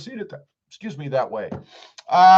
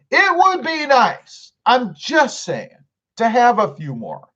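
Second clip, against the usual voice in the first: coy hint; 7 semitones higher than usual. Acted. Hinting for more likes.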